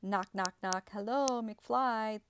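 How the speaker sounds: high, loud imitated scolding rant; mocking angry father. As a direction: rant like a belittling dad, hammed-up. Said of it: "knock on our head and be like".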